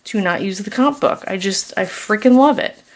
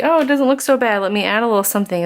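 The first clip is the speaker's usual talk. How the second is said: mock confident thought; 3 semitones higher, much faster than usual. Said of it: "You think".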